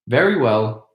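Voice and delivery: grandly. Acted. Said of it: "answered the old woman grandly".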